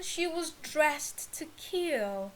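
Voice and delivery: slow, deliberate read of "dressed to kill"; slow model read. Shown as a demonstration. Teacher presenting the idiom to students, slow and deliberate. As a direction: spell "she was dressed to kill" out slowly for the class. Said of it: "Next one".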